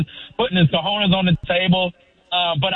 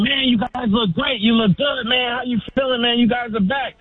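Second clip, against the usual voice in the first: lightly voiced fans, a little higher; fans' praise; 5 semitones higher than usual. Caller imitates fans at the store, a touch higher. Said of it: "people were seeing me".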